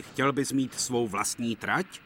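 the fat controller's high, loud, hearty praise. Acted. Fat controller praising Duck, hearty and loud. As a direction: boss pleased with a hard worker.

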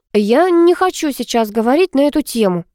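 understated stern annoyance; stern refusal. A narrator's reading. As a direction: shut the topic down firmly. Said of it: "сурово отрезала Алла".

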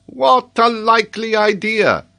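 loud, high, drawn-out scoff; scoffing exclamation. A narrator's reading. Geographer dismisses the major's teasing, loud scornful exclamation. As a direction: exclaim it in ridicule. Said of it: "exclaimed the geographer".

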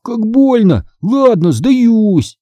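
high, mock-pained surrender; joking. A narrator's reading. Brother whose hand is squeezed, joking surrender. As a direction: play up the pain in fun. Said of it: "пошутил Дэниел".

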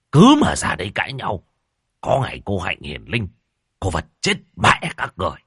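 high, loud exasperated shriek; shrieking rebuke. A narrator's reading. Shaman shrieking at the squabbling clans to stop. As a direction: screech at them to stop fighting. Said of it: "lão thống mới rít lên".

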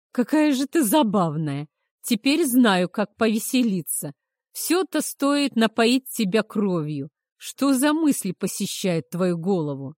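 громко, со смехом; насмешливо веселиться над ней; сквозь хохот. Acted. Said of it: "Эйнар захохотал так". (хохоча, громко)

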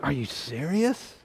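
slow, deadpan "Are you serious?"; mock disbelief. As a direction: drag it out like a put-upon husband. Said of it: "I'm like".

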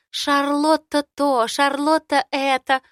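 high squeaky mimicry of a rival; mock her in a squeaky voice. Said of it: "передразнивает Ри писклявым голосом".

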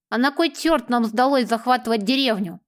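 lightly lisped s sounds; a hint of a toothless lisp. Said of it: "прошепелявил Беззубый". (лёгкая шепелявость)

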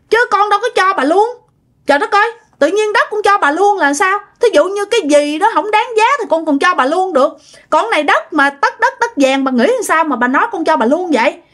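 high-pitched, exasperated retort; indignant quarrel. Retold or imitated. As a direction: lay down an acted ultimatum, pitch high then easing. Acted quarrel, threat to call police.

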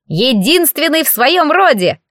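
high slow proud little creature voice; proud declaration. Acted. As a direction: announce it with a puffed-up chest. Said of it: "горделиво заявил комок теста". (колобок гордо заявляет о себе, высоко и медленно)

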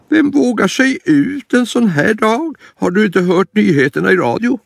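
high, worried granny voice; frightened grandma. Acted. Grandma fearing the escaped lion, high worried voice.

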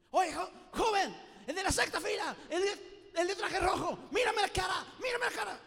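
put-on high, loud shout at one young man; shouting preacher. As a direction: yell at the boy in the sixth row. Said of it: "le empieza a gritar así".

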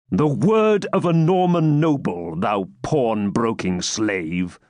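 slow, scornful noble; scornful knight. Acted. Baron scorning the captive, contempt. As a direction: sneer the insult.

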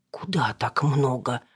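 slow, breathy gasp of amazement; astonished gasp. A narrator's reading. Old woman offered money by Alina, astonished gasp. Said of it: "ахнула старушка".

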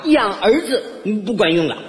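put-on lamenting older relative; mother-in-law. Mother-in-law tells neighbours about sons these days, mock lament. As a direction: confide a comic complaint in her voice. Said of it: "一边夸我".

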